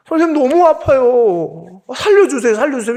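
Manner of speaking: imitated begging. Son begging the doctor for his life, imitated pleading. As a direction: imitate a child begging to be spared. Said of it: "이러면서 막 비는 거예요".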